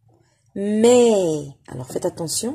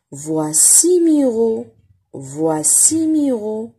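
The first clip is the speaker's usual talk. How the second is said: "Voici Miro" slow and clear; slow reading model; 4 semitones higher, 3 dB louder, much slower than usual. Shown as a demonstration. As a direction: spell it out slowly for children. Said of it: "reading model for pupils".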